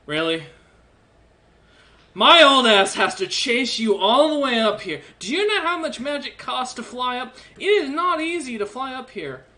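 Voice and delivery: put-on an old dwarf who glares and gripes about flying up; glaring old dwarf. GM voicing the giant dwarf to the player, a hint of irritated old dwarf. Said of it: "glares and goes".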